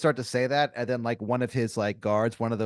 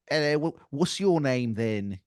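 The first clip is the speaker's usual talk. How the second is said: slow, put-on royal greeting; drawing the name out of him grandly; King of England; 3 semitones higher, slower than usual. King of England asking a crowd member's name, slow and grand. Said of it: "he's like".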